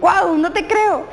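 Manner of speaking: stretched-out amazed guau, no te creo; amazed disbelief. Shown as a demonstration. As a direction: savor the amazing news. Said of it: "te cuentan algo grandioso, increíble".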